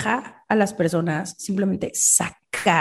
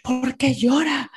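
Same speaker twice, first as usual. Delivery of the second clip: mock puzzled onlooker; 5 semitones higher, slower than usual. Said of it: "Nuestra primera reacción es".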